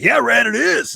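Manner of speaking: high, loud insistence; emphatic contradiction. Retold or imitated. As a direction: throw it back at him, acting out the quarrel. Retold quarrel, Frank insists.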